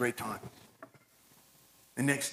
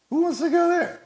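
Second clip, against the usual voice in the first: laughing; 14 semitones higher than usual. Real, not acted. Laughs at boring heaven.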